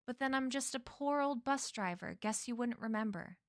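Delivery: put-on a light New England old-timer; touch of New England bus driver; New England accent. Man playing a poor old bus driver, light New England accent. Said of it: "he said in a New England accent".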